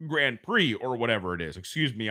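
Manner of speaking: words through a burp. Real, not acted. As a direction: say it while burping. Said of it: "burping 'cause I've been drinking".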